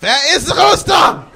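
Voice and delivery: high, loud film-villain impression; mock-dramatic shouted accusation; Inglourious Basterds character. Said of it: "like that scene from Inglourious Basterds".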